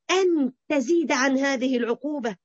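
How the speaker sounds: normal talking voice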